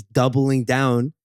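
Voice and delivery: slow "doubling down" with a Canadian vowel; Canadian accent. Real, not acted. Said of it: "That was so Canadian".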